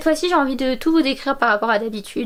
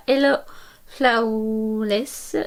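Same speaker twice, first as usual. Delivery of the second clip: brand name in English with a heavy French accent; 2 semitones lower, much slower than usual. Real, not acted. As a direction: say "Hello Flawless" the French way, every sound Frenchified. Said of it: "avec mon accent très pourri".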